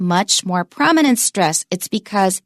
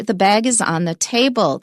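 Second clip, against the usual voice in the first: "on" left light, weight on "bag" and "table"; natural model falling on "table", "on" unaccented; no stress on "on". Shown as a demonstration. Teacher introducing a plain preposition example, unstressed "on". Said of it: "so it has no stress".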